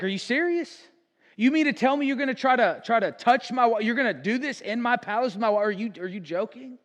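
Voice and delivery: high, loud, incredulous king's outburst; a king shocked and outraged in his own palace. Retold or imitated. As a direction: blast him like a furious betrayed husband. King catches Haman on the couch.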